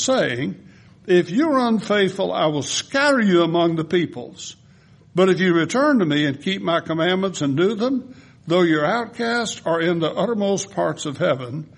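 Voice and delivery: lifted, earnest reading of a prayer; scripture reading. Acted. Pastor reads Nehemiah's prayer aloud to the congregation in a lifted reading voice. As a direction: read the prayer as if praying it.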